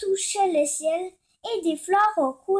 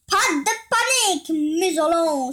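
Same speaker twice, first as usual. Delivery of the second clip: mocking; 3 dB louder than usual. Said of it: "se moqua-t-il".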